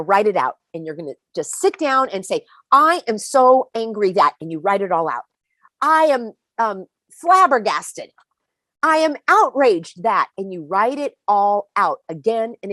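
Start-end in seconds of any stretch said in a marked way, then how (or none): 2.7-4.3 slower, louder, half-acted fury; mock angry. Writing out anger on paper, mock angry and loud. Voicing an angry journal entry. 5.8-10.3 slower, louder, half-acted fury; mock angry. Writing out anger on paper, mock angry and loud. Voicing an angry journal entry.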